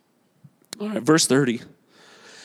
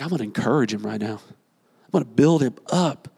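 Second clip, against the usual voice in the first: Jesus' inner thought; 7 semitones lower than usual. Retold or imitated. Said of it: "Jesus is like".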